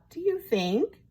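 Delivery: high, hesitant little question; shy. A narrator's reading. Wolf hopes for a new name, shyly. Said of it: "asked Big Bad Wolf shyly".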